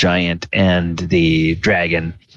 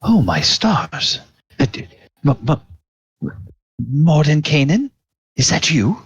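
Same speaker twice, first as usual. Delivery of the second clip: stammering disbelief, rising higher; amazed Felagos; 7 semitones higher than usual. Acted. Felagos recognising the mage, stammering and astonished. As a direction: falter on the name, then ask in astonishment. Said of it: "Felagos says".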